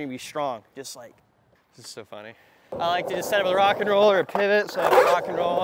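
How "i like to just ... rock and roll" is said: loud, higher talk between heavy breaths; out of breath, pushing the words out; breathing hard. Real, not acted. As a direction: talk while winded from skating. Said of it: "I'm breathing really hard".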